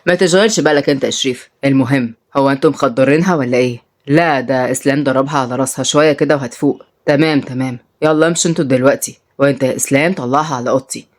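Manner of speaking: low, businesslike boss voice; hint of a man in charge; lightly voiced crime boss. Narrator voices the men's dialogue.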